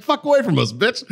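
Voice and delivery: mock furious yell. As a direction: yell her away from the table, hammed up. Retelling telling off a rude woman.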